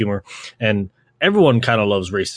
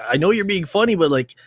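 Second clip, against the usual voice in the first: mock concern; 7 semitones higher than usual. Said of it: "I'm like".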